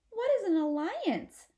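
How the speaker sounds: put-on childlike question. Child asks in high voice.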